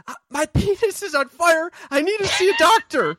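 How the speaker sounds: high, cracking desperate plea, half laughing; high mock-desperate cry for help; emotional plea. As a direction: squeak it out like you're about to lose it. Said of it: "I go".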